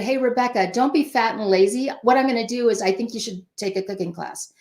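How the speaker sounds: offhand, careless push to a cooking class; blunt parental version. Shown as a demonstration. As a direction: tell her bluntly, no warmth. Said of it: "let me turn that a, a different way".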